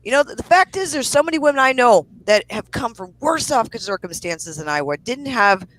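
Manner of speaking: angry rant. Real, not acted. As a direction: tear into her, really fed up. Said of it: "I had my mini rant".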